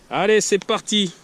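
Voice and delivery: loud, high pumped-up kickoff; excited. Real, not acted. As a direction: fire yourself up to start. Lancement enthousiaste du combat. (enthousiaste et fort)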